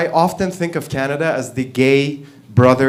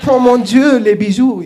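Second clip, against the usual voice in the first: loud, high, theatrical French lament; French, camp; 8 semitones higher, 7 dB louder than usual. Acted. French officials lamenting stolen jewels, camp French. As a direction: wail campily in French, hammed up. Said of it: "it was all French and gay and whatever".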